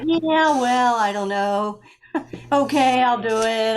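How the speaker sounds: half-hearted agreement with a small laugh; unconvinced. Retold or imitated. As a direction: go along with it, not quite convinced. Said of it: "I wasn't all that, uh, convinced".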